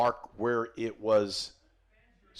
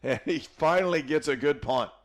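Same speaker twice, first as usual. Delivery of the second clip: higher, louder commentary; excited play-by-play; 4 semitones higher, 4 dB louder than usual. Real, not acted. Announcer to listeners on a finally good punt, excited. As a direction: keep the big-punt call lifted. Live call of a big punt.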